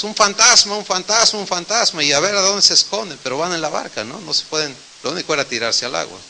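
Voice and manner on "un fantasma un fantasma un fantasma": frightened shout. Retold or imitated. Terrified disciples in the storm, retold panicky cry. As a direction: panicky cry of ghost, fading each time. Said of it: "empiezan a gritar espantados".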